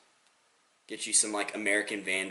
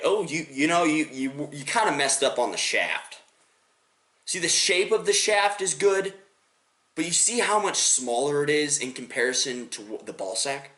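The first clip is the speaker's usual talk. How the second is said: higher-pitched, earnest art critique; mock-serious instructor; 6 semitones higher, 3 dB louder than usual. Drawing-school teacher assessing a student's sketch, mock-serious. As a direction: critique it carefully, as if grading homework. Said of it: "they take it seriously".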